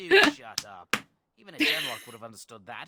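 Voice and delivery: loud, haughty snap; annoyed shout. Acted. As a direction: shut him up with a shout. Game character snaps at partner.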